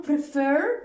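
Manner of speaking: "prefer" with weight on its second syllable; stress on second syllable. Shown as a demonstration. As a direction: stress the last vowel of "prefer". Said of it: "ending in a stressed".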